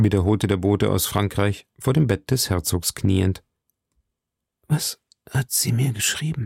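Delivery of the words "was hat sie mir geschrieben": feeble, faint, weak, failing voice. Narrator reads the wounded duke's question to the kneeling messenger, in a faint, weak voice. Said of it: "fragte der Herzog mit matter Stimme".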